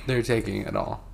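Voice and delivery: unvoiced whisper. Real, not acted. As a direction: whisper it under your breath. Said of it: "whispering about people outside".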